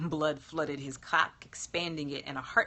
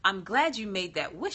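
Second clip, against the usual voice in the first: smiling; 4 dB louder than usual. Acted. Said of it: "she smiled".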